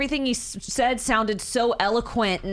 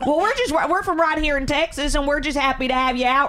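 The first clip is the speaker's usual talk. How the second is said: exaggerated Southern accent; 5 semitones higher than usual. Host imitating Texans welcoming a British guest, exaggerated Southern accent. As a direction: play up a welcoming Texas twang. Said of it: "the way he heard us talk".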